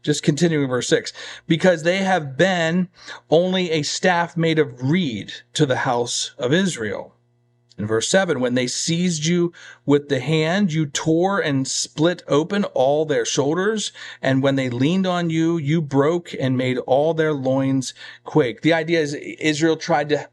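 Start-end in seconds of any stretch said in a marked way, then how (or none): 1.5-7.1 slow, deliberate Bible reading; scripture reading. Real, not acted. Preacher reading God's charge against Egypt, slow scripture reading. 8.4-18.6 slow, deliberate Bible reading; scripture reading. Real, not acted. Preacher reading God's charge against Egypt, slow scripture reading.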